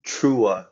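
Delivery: "Chua" said clearly in two syllables; name pronunciation. Shown as a demonstration. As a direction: sound out "Chua" for the hosts. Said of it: "how do you pronounce your last name".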